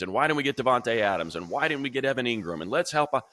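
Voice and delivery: high mocking fan voice, whining for help; mock whiny fan. Host mocking YouTube commenters in a whiny high fan voice. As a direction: whine like an impatient fan in the comments. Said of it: "bigger themes is".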